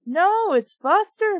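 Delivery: high, slow anguished cry; alarmed girl crying out; urgent alarmed cry; cried out. A narrator's reading. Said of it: "Mindy cried".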